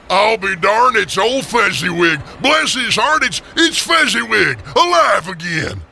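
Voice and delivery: delighted, rising exclaim; thrilled to see an old friend; great excitement. Acted. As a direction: Scrooge cries out in delight at old Fezziwig. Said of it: "Scrooge cried out in great excitement".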